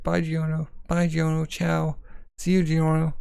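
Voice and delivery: sing-song a teasing goodbye; mock farewell. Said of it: "It's like".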